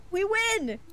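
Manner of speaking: high, giddy victory cheer; high-pitched delighted crowing; gleeful triumph. Real, not acted. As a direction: celebrate like you just cracked it. Celebrating the plan.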